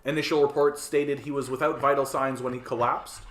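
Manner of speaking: measured news anchor delivery; grave newsreader tone; news read. Acted. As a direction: read it like a TV bulletin. Reads a news item.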